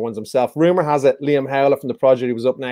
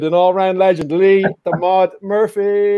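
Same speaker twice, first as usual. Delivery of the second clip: big announcer intro; 5 semitones higher than usual. Real, not acted. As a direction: announce the name like a boxing MC. Host's big guest introduction.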